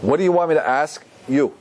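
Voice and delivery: "What do you want me to ask you?" with the voice lifted on the question; questioning tune. Shown as a demonstration. Rabbi repeats a student's question to show its tune, questioning lilt. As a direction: let "ask you" hang as an open question. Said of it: "is your voice goes up".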